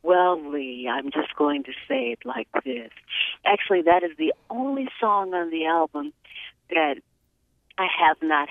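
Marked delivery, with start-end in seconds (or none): 0.0-2.9 breathy sultry radio voice. Pretend. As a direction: purr it like a late-night DJ. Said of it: "I'm going to put my sultry voice back on now".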